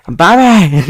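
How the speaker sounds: loud, high mock Brummie; hammed-up Birmingham accent; Brummie attempt. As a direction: belt it out in bad Brummie. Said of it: "I am not replicating that".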